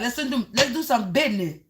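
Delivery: a light put-on voice of some hustler; imitating someone's talk. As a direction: lightly mimic how that person pitches a deal. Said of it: "Somebody talks like that".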